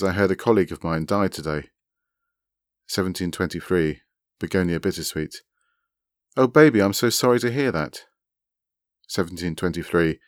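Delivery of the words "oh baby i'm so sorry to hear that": sympathetic. A narrator's reading. Consoling someone over a colleague's death.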